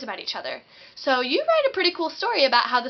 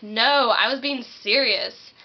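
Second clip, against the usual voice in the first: sarcastic denial; slower than usual. Acted. Sarcastic reply to clueless friend.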